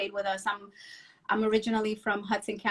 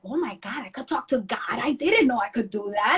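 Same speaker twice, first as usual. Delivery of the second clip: put-on child's wonder. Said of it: "And I was like".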